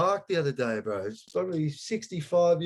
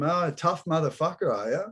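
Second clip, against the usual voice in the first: mocking taunt; 2 semitones higher than usual. Taunting the masked tough guy in the shop, mocking. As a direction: taunt him like a bully. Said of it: "I'm just going".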